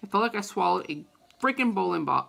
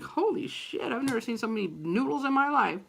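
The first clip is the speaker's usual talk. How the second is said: high gasp of amazement, fast; mock wonder at noodles; wide-eyed holy shit; amazed; 4 semitones higher than usual.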